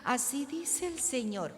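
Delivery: high, sustained prophetic chant; tono de voz especial. Shown as a demonstration. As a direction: put on a solemn prophet voice, drawing it out. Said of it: "no ponga un tono de voz especial". (voz profética fingida, aguda y alargada)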